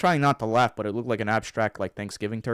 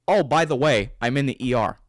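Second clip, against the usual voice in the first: louder, higher mock casual news drop; mimicked announcement; 3 semitones higher, 6 dB louder than usual. Co-host mimicking his injured friend's phone call, mock announcement. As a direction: imitate a friend's by-the-way bombshell.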